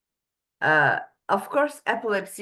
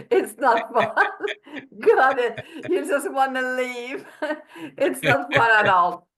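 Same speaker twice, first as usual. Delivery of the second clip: laughing; 4 semitones higher than usual. Real, not acted. Laughing about boring Mensa.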